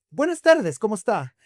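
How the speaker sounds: "Buenas tardes" pitched high and loud, "tardes" pressed hard; the clerk, fed up, demands a greeting from the rude customer; insistent greeting. Retold or imitated. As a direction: lose patience and insist on the greeting. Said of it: "Y le vuelve".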